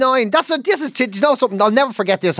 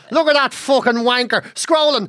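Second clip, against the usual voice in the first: slow, scornful scrolling commentary; mock sneering at Instagram. Mocking bad-mood scrolling on Instagram, slow sneer. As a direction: sneer at every post. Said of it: "You just do it on Instagram".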